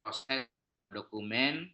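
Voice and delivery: choppy, breaking-up audio; bad connection. Real, not acted. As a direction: voice cutting in and out on the call. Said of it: "Suaranya putus-putus, Pak". (suara putus-putus)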